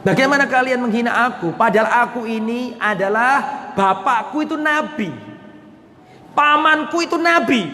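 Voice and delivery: acted indignant boast; proud retort. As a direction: answer the insult with pedigree. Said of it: "Jawablah seperti ini".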